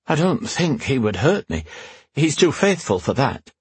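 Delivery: lightly voiced queen. Queen reassuring her protector, lightly voiced. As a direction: lift the voice lightly for the queen defending her knight.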